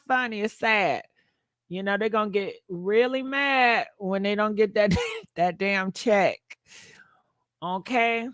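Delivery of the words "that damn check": laughing. Real, not acted. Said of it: "I don't know why I'm laughing".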